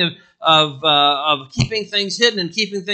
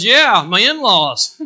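laughing; 4 semitones higher, 10 dB louder, slower than usual. Retold or imitated. Wife's joke back in car.

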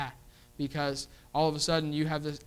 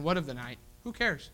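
careless shrug; 2 semitones lower, 5 dB quieter than usual. Retold or imitated. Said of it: "They're careless".

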